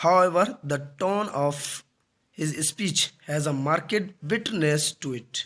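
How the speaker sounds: slow, measured reading; definition read aloud. Acted. Teacher reading out a definition for learners, slow dictation. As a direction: read slowly with breaks between phrases.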